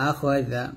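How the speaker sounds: জা with tongue tip on upper teeth; soft "th" as in "this" for জা; tongue-tip dhal. Shown as a demonstration. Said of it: "এই জালের উচ্চারণটা জিহ্বার আগা".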